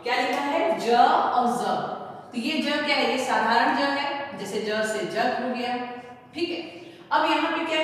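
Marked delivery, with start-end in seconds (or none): 0.8-1.8 plain ज, then buzzing ज as z; contrasting j and z. Shown as a demonstration. Teacher contrasting the two letters, ज as j then ज as z. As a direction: say ज as j, then ज as a drawn z. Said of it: "उच्चारण पकड़िएगा, उच्चारण से ही आप समझ पाओगे".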